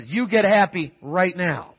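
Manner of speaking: put-on slow, firm order to a child; stern parental command. Father to unhappy three-year-old son, stern command. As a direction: spell it out slowly, firmly.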